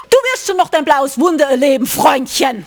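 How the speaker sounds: quick mock-aggressive warning; imitated threat. Retelling the customer's threat to Marcel, imitated aggression. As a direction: rattle off a menacing retort. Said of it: "This kind of energy".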